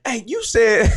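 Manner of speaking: high, loud, breathless talking; out of breath. Retold or imitated. Recalling speaking up on Clubhouse at the gym, out of breath. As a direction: imitate yourself talking out of breath. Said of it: "I'm out of breath talking".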